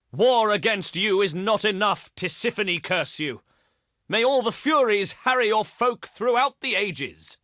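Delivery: heated, declaimed curse; vengeful curse. Acted. Leader cursing the enemy with the Furies, vengeful declaiming. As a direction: call down doom on the enemy.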